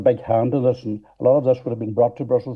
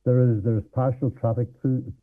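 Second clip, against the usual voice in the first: muffled mic; 3 dB quieter than usual. Real, not acted. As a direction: voice muffled by hand over mic. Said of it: "You're covering your mic with your hand".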